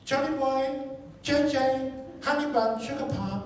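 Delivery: high singsong motherly call; drawn-out pet-name calling; mom calling out. Retold or imitated. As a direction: imitate a doting mom calling her boy. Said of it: "John's mom started calling out John's name".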